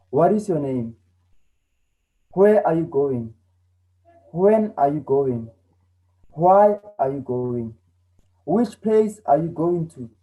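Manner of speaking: example questions, "what", "where", "when", "why" lifted in pitch; questioning tune. Shown as a demonstration. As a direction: ask each one as a clear model question, voice going up. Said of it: "my voice goes up when I ask such questions".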